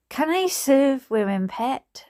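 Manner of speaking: shaky-footed attempt at Geordie, pitched high; Geordie accent. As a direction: have a rough go at a Geordie barman. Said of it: "I can't be doing Geordie accents".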